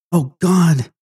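panicked plea bursting out; terrified outcry. A narrator's reading. Terrified Flora cries out, escalating.

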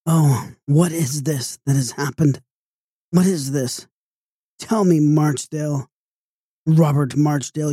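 understated anguish of a distressed mother; tearful exclaiming. A narrator's reading. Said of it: "and exclaimed".

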